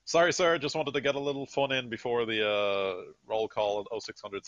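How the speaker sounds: hurried apology that starts high and loud; acted eager-to-appease soldier; saluting soldier. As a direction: play a soldier apologising to a superior, pitch settling as it goes. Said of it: "he salutes and says".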